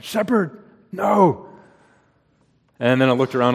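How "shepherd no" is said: put-on high, loud urgent yell at a runaway child; retold yell. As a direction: shout the child's name to stop him in his tracks. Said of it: "I just yelled".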